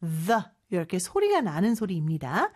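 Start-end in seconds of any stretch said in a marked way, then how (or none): 0.0-0.4 "the" with tongue pulled from between the teeth; voiced TH. Shown as a demonstration. Teacher demonstrating tongue position, voiced TH in "the". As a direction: buzz the TH at the start of "the". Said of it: "윗니와 아랫니 사이에 혀를 넣은".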